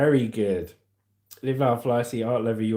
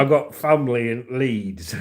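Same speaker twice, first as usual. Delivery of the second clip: Leeds-style Yorkshire accent; northern English accent; 4 semitones lower than usual. Shown as a demonstration. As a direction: talk like someone from up north. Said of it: "what it sounds like when you're from up north".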